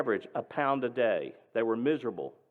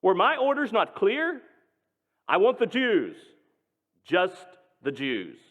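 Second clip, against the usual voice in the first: loud and higher, shouting then slowing; enraged major; 6 semitones higher, 4 dB louder than usual. Retold or imitated. Nazi major shouting demands at Dad, enraged. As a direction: bark the demand, biting off each word. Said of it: "the major screamed".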